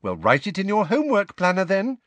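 high, quick, eager prompting; encouraging. A narrator's reading. Hermione prompts Harry to use his planner, encouraging. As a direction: chivvy a friend along brightly. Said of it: "said Hermione encouragingly".

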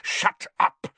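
loud, harsh whispered order; hissed. A narrator's reading. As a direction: hiss it forcefully without voice. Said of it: "Snape hissed to Filch".

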